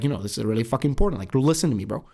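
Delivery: "really fucking important" rushed and punched; quick, insistent emphasis on "listen to me"; stressed for importance. Shown as a demonstration. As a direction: lean hard on "important" and "listen". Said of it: "the stress on it".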